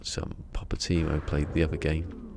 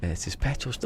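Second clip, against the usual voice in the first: higher-pitched stab at Australian, abandoned midway; attempted Australian accent; 7 semitones higher than usual. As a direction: try an Australian accent and break off. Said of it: "I can't do it".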